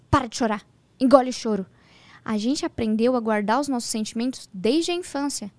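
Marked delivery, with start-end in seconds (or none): 0.1-1.7 curt retold scolding, a bit louder; stern mother. Mother to sad child, stern retold order to stop crying. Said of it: "minha mãe falava assim".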